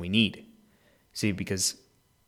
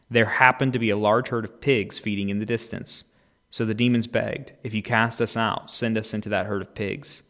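louder dramatic reading of the Gospel; scripture reading; 5 dB louder than usual. Acted. Pastor reading Matthew's Gospel to listeners, dramatic and loud. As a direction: tell the story with full voice. Reads the Gospel passage aloud.

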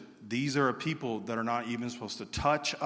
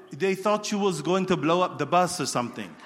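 laughing; 6 semitones higher, 6 dB louder than usual. Retold or imitated. Friend explaining the mistake.

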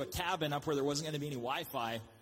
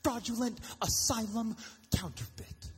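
high loud outraged rant; 9 semitones higher, 3 dB louder than usual. Retold or imitated. Outraged fan yelling at a friend who watched the knockoff. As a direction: shout it in mock disbelief at the friend. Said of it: "you would be outraged".

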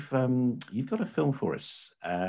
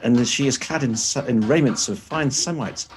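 hammy stage actor; 3 semitones higher than usual. Pretend. Mock medieval herald announcing guest.

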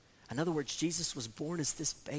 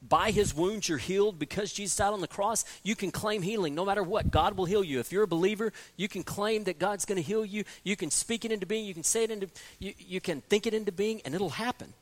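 mock prosperity preacher; 3 semitones higher than usual. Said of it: "they'll say".

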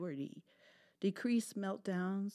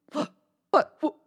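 shocked; 10 semitones higher, 13 dB louder than usual. Acted. Dog shocked by cat's song.

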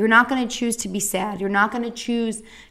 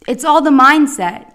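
loud, raised mock pep talk; mock platitude; 4 semitones higher, 9 dB louder than usual. Cancer patient quoting people who don't know, mock pep talk. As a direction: overdo the hollow encouragement.

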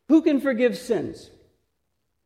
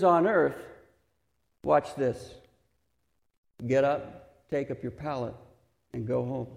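gentle Jesus; 6 semitones lower than usual. Retold or imitated. Jesus telling the paralysed man to get up, low and gentle.

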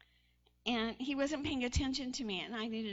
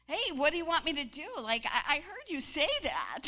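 husband's mock gruff; 3 semitones higher, 5 dB louder than usual. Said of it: "he's like".

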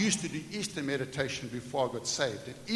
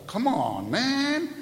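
football fan shout; 8 semitones higher, 6 dB louder, much slower than usual. Acted. Monday Night Football shout.

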